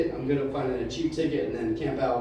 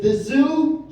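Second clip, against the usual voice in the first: high, loud mock-baffled question; incredulous shouted echo; needling mishearing; 13 semitones higher, 8 dB louder than usual. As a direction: throw it back louder to provoke. Waiter repeats the mishearing.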